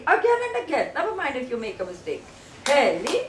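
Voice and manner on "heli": "Heli" in two separate beats, rising at the end; syllable by syllable. Shown as a demonstration. Teacher leads everybody together, syllable by syllable. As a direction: model "Heli" for repeating, syllables apart. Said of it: "You have to say it nicely".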